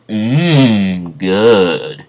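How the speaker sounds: drawn-out appreciative "mmm"; acted yummy approval; savouring food. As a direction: taste it and relish it. Acts Arena tasting the food.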